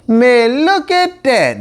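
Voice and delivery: high, awed exclaim; amazed. A narrator's reading. Nicolette shows the others the bonfires, awed and high. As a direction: gasp it out in wonder, pitched high. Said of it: "Nicolette said".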